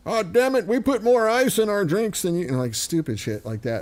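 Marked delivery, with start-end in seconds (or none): 0.1-2.5 brash tourist gloat, pitched up; mock obnoxious American. Guest mocking the ugly-American tourist, brash high gloat. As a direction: sneer like a boastful Yank abroad. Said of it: "I never walked around going".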